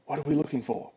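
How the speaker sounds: lightly voiced small unseen companion; quiet little voice from nowhere; disembodied voice. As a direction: speak softly as a hidden companion. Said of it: "you hear a voice say".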